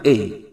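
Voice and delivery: এই said once, lightly, without force; light এই for the letter A; letter name A. Shown as a demonstration. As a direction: say এই gently, not stressed. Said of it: "একবার ঠিক খুব জোর দিয়ে না".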